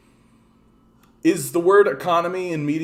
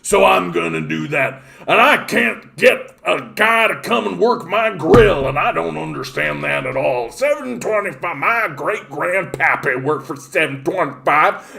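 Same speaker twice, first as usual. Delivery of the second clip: mock redneck business owner. Mocking anti-vax business owners in a put-on yokel voice. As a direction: play a dim small-town grill owner, all bluster. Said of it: "the same type of people who are like".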